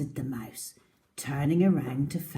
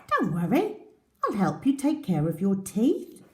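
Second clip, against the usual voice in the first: mouse voice; 4 semitones higher, 5 dB louder than usual. Acted. Mouse reassures crocodile.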